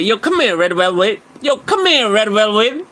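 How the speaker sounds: teasing catcall; mock catcall. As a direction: call him over in a teasing sing-song. Mock-calling out.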